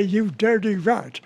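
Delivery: slow, lightly done Cagney snarl; a hint of James Cagney, drawn out; Cagney impression. Cagney quoting his own famous line, lightly mimicked. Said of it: "I did say".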